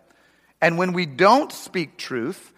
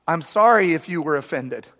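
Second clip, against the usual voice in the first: fake apology. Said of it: "this is a classic".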